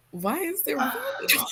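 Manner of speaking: high-pitched mock scream of disbelief; high, incredulous retold shriek. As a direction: cry out in horror, without full volume. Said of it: "screamed out".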